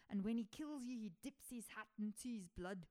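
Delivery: a deliberate, hammed-up Scottish accent. Shown as a demonstration. Host's second try at the rumor, hammed-up Scottish accent. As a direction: tell the rumor like a Scottish local, playing it up. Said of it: "No, let me try it".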